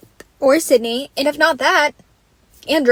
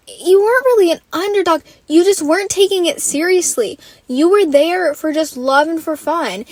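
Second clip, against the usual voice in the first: exasperated retort; 4 semitones higher than usual. Retold or imitated. Telling the contestant off in my head, exasperated. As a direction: set her straight, fed up. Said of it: "I'm like".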